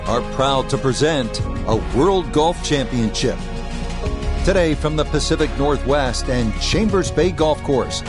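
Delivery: announcer. Acted. Broadcast intro announcement.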